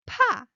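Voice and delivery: 파 said high and loud, aspirated; 파 with a strong puff of air, high; high-pitched 파. Shown as a demonstration. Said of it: "high pitch".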